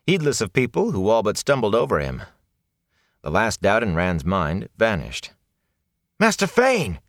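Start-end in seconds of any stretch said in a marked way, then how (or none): 6.2-7.0 high ringing shout of a name. A narrator's reading. Rand shouting after the peddler in the street. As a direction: call out across the crowd. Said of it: "he shouted".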